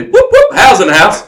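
very high, loud whoops in mock Irish; hammed-up, high Irish hype call; Irish announcer catchphrase. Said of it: "but in an Irish accent".

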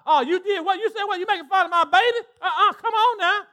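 a church mama about to fight; mock outrage. Acted mother confronting mocker.

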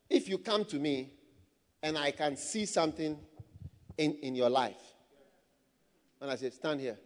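low, soft, broken by pauses; hushed demonstration of a prophet; solemn prophetic manner. Shown as a demonstration. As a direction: speak quietly and low, leaving weighty gaps.

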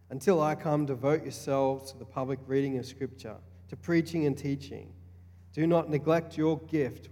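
bold, proclaiming reading; scripture reading. Acted. Pastor reading Timothy to the young men, proclaiming. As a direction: read Paul's words as a charge.

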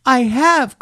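high, loud protest of a little rabbit; indignant small rabbit; crying out. A narrator's reading. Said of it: "cried the little rabbit".

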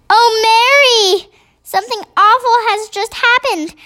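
high, upset royal voice; a shaken queen calling her maid. A narrator's reading. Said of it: "a very well-known voice".

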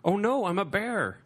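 a hammed-up cartoon bear crying out; mock bear voice. Hosts ranking Disney films, quoting a bear, hammed up.

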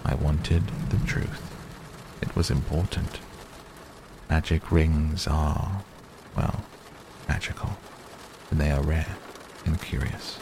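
lightly voiced wizard, patient and grave; understated, unhurried counsel; measured old wizard. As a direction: reason quietly, with deliberate pauses. Voices Gandalf reasoning with Bilbo.

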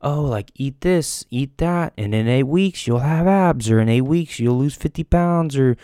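light mock of fitness hype; mocking diet advice. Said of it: "most people talk about".

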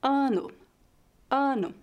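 "Ano" with the A nasalised before N; nasalised vowel. Shown as a demonstration. Teacher showing vowels before N, "Ano" with nasal A. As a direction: send the first vowel of "Ano" through the nose. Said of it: "nasalizadas em português".

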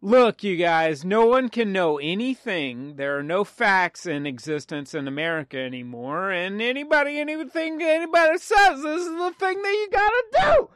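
a calm start that winds up into a ranting frenzy; mock Mel Gibson rant. Mocking Mel Gibson to the podcast hosts, ranting.

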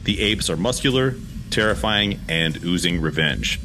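reading the scene directions in a steady storyteller voice; script narration. A narrator's reading. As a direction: set the scene like a movie script. Reads screenplay action lines.

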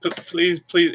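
high, frightened begging; pleading squirrel. Acted. Squirrel spirit begs the rogue to spare it, high and frightened. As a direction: beg them not to grab you.

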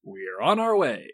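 slow unvoiced whisper. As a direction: breathe it out slowly. Whispering into the rock.

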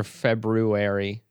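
"February" slowly, sounding its first R; spelling pronunciation. Shown as a demonstration. Co-host joking about words said as spelled, slow careful February.

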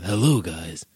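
a touch of a deep cheesy podcast host; deep radio voice. Shown as a demonstration. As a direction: drop deep and slow for the intro, lightly done. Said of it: "start doing the podcast like".

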